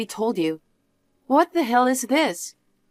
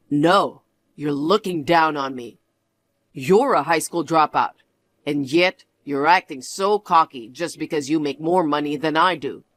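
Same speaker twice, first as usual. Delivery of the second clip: lower, cold lecturing voice; condescending husband; 6 semitones lower than usual. Acted. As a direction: talk down to your wife, low and smug. Husband voice again.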